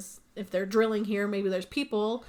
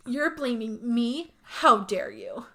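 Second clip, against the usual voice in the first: mock upset; 3 semitones higher, slower than usual. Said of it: "Jill gets super upset and she goes".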